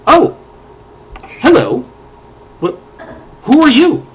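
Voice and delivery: startled. Acted. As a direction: caught off guard, she looks up. Startled mage notices the party.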